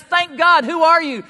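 high, loud frantic relief; desperate man calling up the cliff. Acted. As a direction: gasp it out, relieved and panicked.

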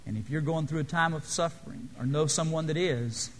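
usual speaking voice

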